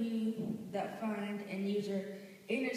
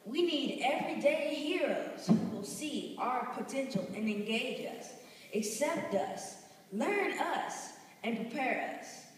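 preaching; 2 semitones higher, 3 dB louder than usual. Acted. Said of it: "let's have church in here".

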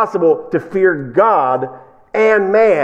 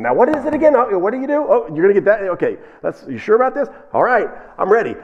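eager questioning; 5 semitones higher, faster than usual. Retold or imitated. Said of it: "By the fifth time he's asking them".

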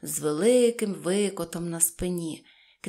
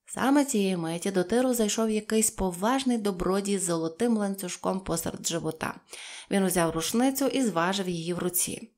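usual speaking voice

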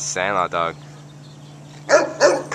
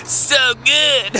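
higher, mock blissful so good; imitating own face; 9 semitones higher than usual. Showing his friend how his face looked, mock blissful. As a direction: replay the dreamy face in your voice. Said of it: "It was like this".

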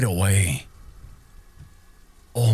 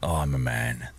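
much lower, softer mock tough-guy voice; a playful put-on deep he-man voice; mock macho; 12 semitones lower, 6 dB quieter than usual. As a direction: puff up like a tough guy, joking. Steeling himself to be brave.

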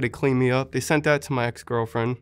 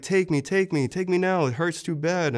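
higher-pitched pleading, not louder; retold pleading cry; 5 semitones higher than usual. Wounded man begging God to end the pain, higher plea. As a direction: beg to be taken, pitched well up. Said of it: "I screamed Jesus' name so loud".

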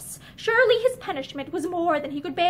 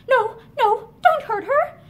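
higher, louder frightened plea; frightened cry; 6 semitones higher, 5 dB louder, slower than usual. Acted. Barbara shielding Linda from Asher, frightened cry. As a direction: throw yourself between them crying out.

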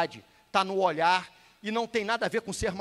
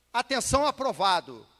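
measured attention call, stretched out; command call; 4 dB louder than usual. Shown as a demonstration. Instructor demonstrates to candidates how he will address them, command call. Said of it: "E aí eu vou falar assim".

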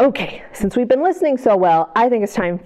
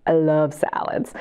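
whisper; 6 semitones lower than usual. Acted. Teacher telling kids she loves salads: whisper. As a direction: confide it like a little secret.

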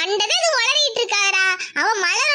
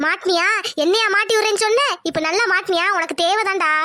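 low, satisfied needling; gloating taunt; 5 semitones lower than usual. Acted. Intended victim taunting the schemer who got caught, gloating taunt.

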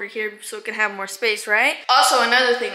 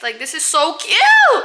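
excited; 4 semitones higher, 5 dB louder, slower than usual. Real, not acted. Gushing over bed print.

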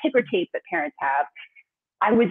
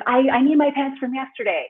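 imitating her three-year-old; 5 semitones higher, 4 dB louder than usual. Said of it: "he's like".

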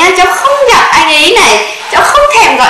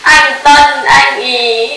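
sing-song whine; 4 semitones lower, much slower than usual. Acted. Granddaughter whining to grandma.

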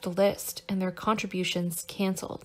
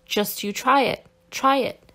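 echoed defiant cry; 4 semitones higher, 5 dB louder than usual. A narrator's reading. Whole hall echoing a dare to the commissar, defiant cry. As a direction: dare rising higher and louder at the end. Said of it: "the entire hall repeated".

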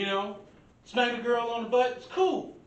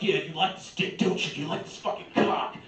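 porn actor talk; 3 semitones lower than usual. Retold or imitated. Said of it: "he's saying all the nasty shit".

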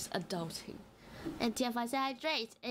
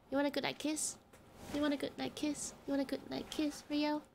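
goodnight kiss; 3 semitones higher, faster than usual. Real, not acted. Cooing to sleeping cat.

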